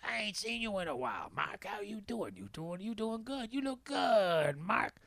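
imitated older Southern stranger; Bay. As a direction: greet a long-lost friend in singsong. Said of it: "he goes, he goes".

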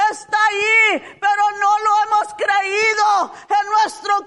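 impassioned sermon voice, crying out the story; fervent preaching. Acted. Preacher telling the church Bartimeo's cry, impassioned.

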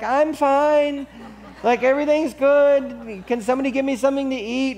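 high, laughing, carefree patient voice; cheerful old lady. Retold or imitated. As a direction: brush off the broken hip, the last bit fast. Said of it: "and she's like".

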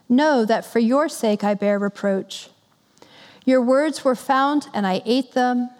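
measured, solemn Bible reading; scripture reading. Acted. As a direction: read the prophet's lament with gravity. Reads scripture passage aloud.

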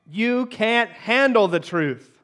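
a touch of courtroom drama; slow dramatic movie line. Retold or imitated. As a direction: lean into it slowly. Quiz quote from a movie.

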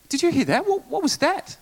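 acted high-pitched alarm; mock-bewildered, voice leaping up; startled questioning. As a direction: ask the guide in hammed-up astonishment. Acts out startled question to guide.

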